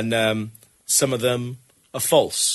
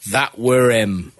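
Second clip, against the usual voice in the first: put-on northern accent; much slower than usual. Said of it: "when a northern person says".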